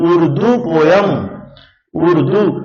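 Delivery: उर्दू opening on a pure "oo", no y; word pronunciation demo. Shown as a demonstration. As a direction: say उर्दू slowly with a bare vowel start. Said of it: "ये उच्चारण क्या आ गया?".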